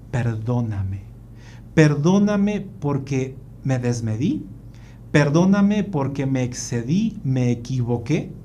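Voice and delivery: measured, understated plea for forgiveness; sincere apology. Retold or imitated. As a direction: ask forgiveness gently, pausing between admissions. Father kneels apologizing to son.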